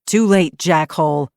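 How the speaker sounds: loud, defiant call; loud taunt. Acted. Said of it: "Eli said in a loud voice".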